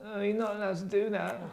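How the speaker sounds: squeaky nagging spellcheck; mock grammar checker. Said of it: "little blue dots come under".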